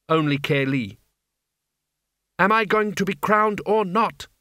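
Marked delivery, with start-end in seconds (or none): 2.4-4.3 high, imperious question; icy young royal; icy demand. A narrator's reading. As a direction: demand it coldly, voice pitched up. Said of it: "she said icily".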